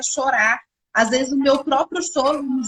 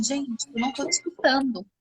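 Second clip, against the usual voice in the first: put-on soft voice to kids; 5 dB quieter than usual. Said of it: "Aí eu vou bem baixinho".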